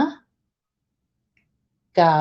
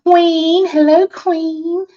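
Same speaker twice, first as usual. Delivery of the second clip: excited greeting; 8 semitones higher, slower than usual. Real, not acted. Gushing greeting to a viewer.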